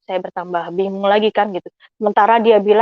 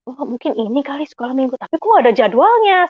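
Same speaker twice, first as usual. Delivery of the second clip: higher-pitched puzzled self-questioning, growing louder; acted bewilderment; 5 semitones higher, 3 dB louder than usual. Mother wondering about the missing Sunday school schedule, bewildered. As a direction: recreate being baffled, pitch climbing steeply. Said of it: "Saya bingung".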